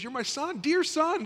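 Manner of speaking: high, tender loving father voice; a father calling his son dear, tenderly. Acted. Father gently reassures his returning son, tender and high. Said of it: "that's endearment".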